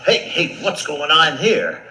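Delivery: indignant lion waking up; startled lion. Acted. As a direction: burst out as if jolted from sleep. Lion woken by mouse.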